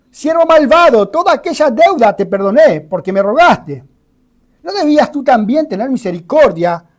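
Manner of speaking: angry master. Acted.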